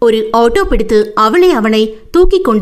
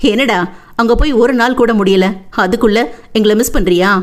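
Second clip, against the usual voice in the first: put-on lightly teasing older brother; understated playful ribbing; mischievous teasing. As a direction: gently poke fun at your sister. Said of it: "குறும்புடன் கேட்டான் நிலன்".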